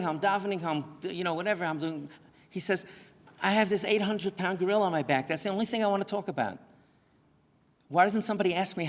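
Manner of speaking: high, loud, pained outcry; emotional plea. Retold or imitated. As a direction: voice the teenager's desperate cry for help. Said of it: "he told me with such emotion".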